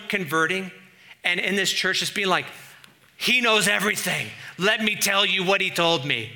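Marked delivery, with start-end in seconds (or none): 3.2-6.3 eager confession. Acted. Acting a new convert in church.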